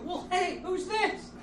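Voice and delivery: put-on high sing-song drunk mom. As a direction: play his boozy mother greeting him. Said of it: "I'd come downstairs in the morning and go".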